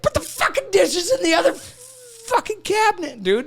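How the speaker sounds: high mock bossy rant; mock exasperated husband. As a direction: bark it like the know-it-all husband. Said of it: "you're like".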